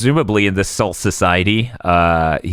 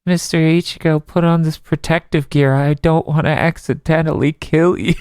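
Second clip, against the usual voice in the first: slightly higher, mild little-girl impression; soft-voiced girl; 4 semitones higher than usual. Ururu warns Ichigo to gear up, in lightly imitated soft voice. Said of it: "She's so soft-voiced".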